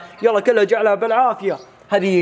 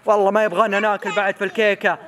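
said through a laugh. Real, not acted. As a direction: chuckle through the teasing. Laughing while teasing.

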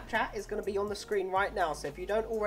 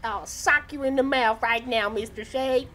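high-pitched redneck threat; hammed-up redneck holler; 4 semitones higher than usual. Redneck voice again, mock threat.

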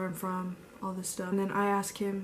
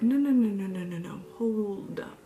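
insistent no; 4 dB louder than usual. Retold or imitated. Cutting the friend off.

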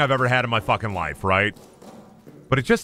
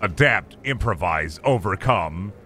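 low, deep mock-tough voice reciting a motto; gruff meme quote; 5 semitones lower, slower than usual. Gamer reciting a tough-guy meme motto, deep mock voice. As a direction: growl it like a drill sergeant.

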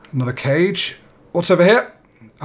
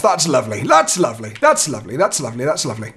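self-soothing mantra; 4 semitones lower, faster than usual. Acted. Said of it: "I have to talk like this".

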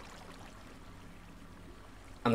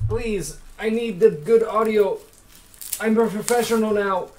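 high-pitched, dismayed pleading; plead, rising into a high wail of no; pleading whine; 8 semitones higher, 4 dB louder, slower than usual. Real, not acted. Streamer pleads for good audio, pleading whine.

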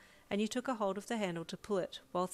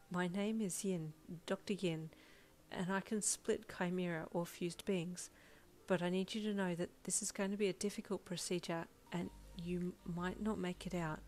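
truthful; 4 dB quieter than usual. Acted. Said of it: "you said truthfully".

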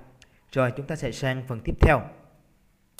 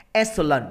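"Excellent" with EX strong; "Excellent" falling from a stressed first syllable. Shown as a demonstration. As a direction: punch the opening of "Excellent". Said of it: "những âm một cho thầy".

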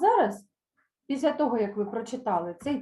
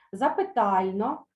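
slow drill; slower than usual. Shown as a demonstration. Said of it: "Повторюйте за мною".

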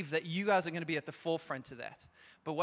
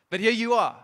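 emphatic preacher shout; 4 semitones higher, 11 dB louder than usual. Real, not acted. Preacher emphatically addressing young people.

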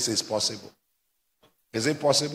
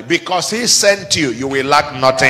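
louder, climactic final repeat; building emphatic preaching; 8 dB louder than usual. Real, not acted. Pastor repeats the promise a third time to the church, loud climax. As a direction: drive it home the last time.

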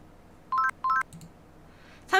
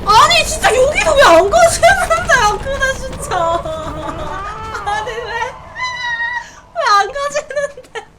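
high, loud tearful wailing; crying out at the stuck swing; frustrated whining; 6 semitones higher, 5 dB louder than usual. Real, not acted. Swing won't move, near tears. (울먹이며 짜증내는 외침)

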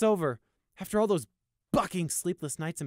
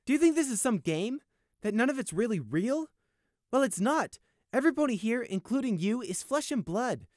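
higher, louder stern scolding; angry lecture; 13 semitones higher, 7 dB louder than usual. Acted. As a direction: lecture him angrily. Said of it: "Sunshine told Prey".

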